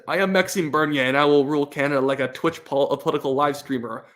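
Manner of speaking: light put-on French accent, read playfully; mock French accent. Streamer reading a viewer's message aloud, in a light mock French accent. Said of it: "in French accent".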